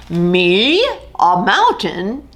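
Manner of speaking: lightly voiced lion, bemused; a big cat toying with an idea; hint of a lion voice; amused lion.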